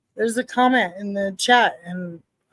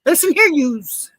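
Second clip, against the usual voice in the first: mock New Yorker laying down the law; playful New York accent; 3 semitones higher than usual. Host riffing on New York talk, mock New York accent. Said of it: "like N Y C back in the".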